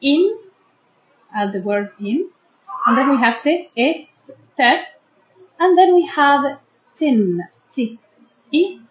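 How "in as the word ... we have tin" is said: "in", "test", "tin" each said as separate beats; teacher drilling syllables one by one; sounding out syllables. Shown as a demonstration. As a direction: break "intestine" into parts for the class. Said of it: "divide this word into three syllables".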